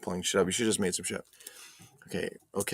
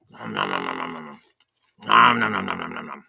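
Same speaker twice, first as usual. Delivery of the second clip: chewing noises while talking; mouth full; 5 semitones lower, 3 dB louder than usual. Real, not acted. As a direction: nom nom through a mouthful. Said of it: "I'm gonna annoy Rich Hurley while I'm eating and talking".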